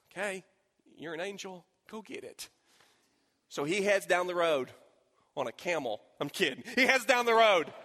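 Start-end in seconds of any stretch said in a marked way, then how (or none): 0.1-2.5 weary relief. Retold or imitated. Desperate reply to the helper.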